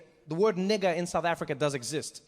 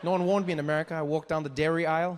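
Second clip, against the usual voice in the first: ordinary talk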